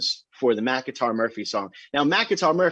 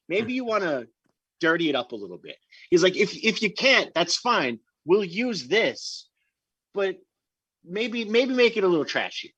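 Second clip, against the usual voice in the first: imitating Vic; 6 semitones higher than usual. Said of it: "Vic goes".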